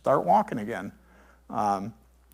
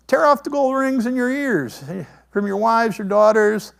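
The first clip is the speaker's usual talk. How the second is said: commanding Aaron; 5 semitones higher, 4 dB louder than usual. Acted.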